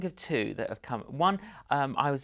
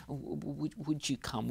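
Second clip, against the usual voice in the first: nervous; 3 semitones higher, 4 dB quieter than usual. Retold or imitated. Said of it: "first of all, we're nervous".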